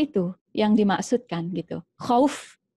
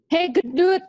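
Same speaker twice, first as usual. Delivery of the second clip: a lightly voiced, higher mocking mom; name-calling mother; 7 semitones higher, slower than usual. Mother calling her child by a teasing nickname, mild mockery.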